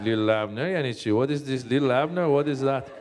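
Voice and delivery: put-on baffled question in an Iranian accent; puzzled Iranian accent. Iranians who have no idea who Little Abner is, puzzled Iranian accent.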